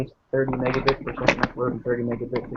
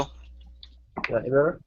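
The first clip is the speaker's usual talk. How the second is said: muffled; 2 semitones higher, much faster than usual. Real, not acted. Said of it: "You sound, uh, muffled".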